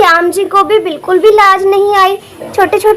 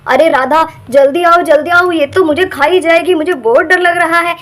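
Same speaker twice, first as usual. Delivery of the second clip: scared cry for help; 3 semitones lower than usual. Acted. Husband calls for help.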